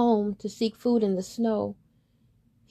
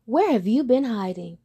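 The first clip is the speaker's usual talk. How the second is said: swans asking; 3 semitones higher, 6 dB louder than usual. Acted. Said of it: "they said".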